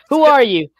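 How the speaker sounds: hammed-up Midwestern lilt; Midwestern Venom. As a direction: play a monster with a chatty Midwestern accent. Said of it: "like, Midwestern Venom".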